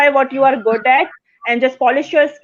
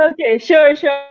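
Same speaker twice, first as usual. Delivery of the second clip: higher, laughing assent; laughing agreement; 4 semitones higher, 4 dB louder than usual. Real, not acted. Guest agreeing to be connected, laughing.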